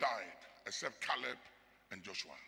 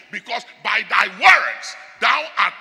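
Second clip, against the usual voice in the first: proclaiming scripture; 3 semitones higher, 11 dB louder than usual. Real, not acted. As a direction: declaim the verse like thunder.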